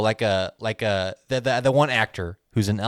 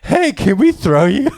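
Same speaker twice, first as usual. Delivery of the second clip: high, raised mock drunken call; drunk people calling; 6 semitones higher, 4 dB louder than usual. Drunk people approaching the dwarf at his table, mock calling out. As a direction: call out eagerly, pitched up. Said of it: "all these drunk people come".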